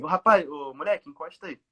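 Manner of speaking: mild imitation of a policeman's yell; half-hearted re-enacted shout; retold shout. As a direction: imitate an officer hailing a youth. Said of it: "Ele gritou assim".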